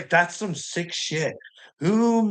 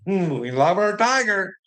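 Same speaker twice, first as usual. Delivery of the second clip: lightly mocking, indulgent fondness, pitched up; a higher, lightly put-on doting voice; Donald Trump; 4 semitones higher than usual. Trump excusing Tiger instead of scolding him, mock doting. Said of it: "Donald Trump".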